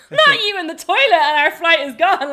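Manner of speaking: yelling in panic at her sister; frantic exclamation. Retold or imitated.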